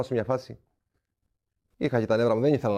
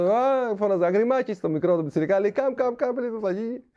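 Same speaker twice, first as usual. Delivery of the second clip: higher, calling across the pitch; 5 semitones higher than usual. Retold or imitated. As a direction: shout it up from below. Calling to the young keeper. (φώναζε από κάτω προς τον πιτσιρικά)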